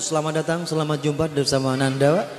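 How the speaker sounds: fast, loud stage announcer; rapid showman welcome; mock emcee. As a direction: hype up the crowd like a show host.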